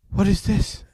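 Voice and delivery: imitating a stunned worker; incredulous question. Cleaner asks her about the cash, incredulous.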